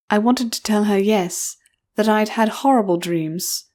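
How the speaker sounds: usual speaking voice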